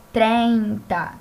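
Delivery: "treinta" com ditongo EI bem marcado; "treinta" dito à espanhola, tre-in-ta; treinta em espanhol. Shown as a demonstration. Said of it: "Tem o E aqui". (pronúncia espanhola de "treinta")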